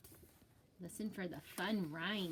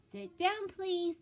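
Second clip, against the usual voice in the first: teacher voice; 9 semitones higher, 5 dB louder than usual. Acted. Teacher tells Clark to sit.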